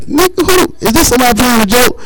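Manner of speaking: high, fast disbelief; incredulous. Retold or imitated. Reacting to a collector calling, incredulous. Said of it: "I was like".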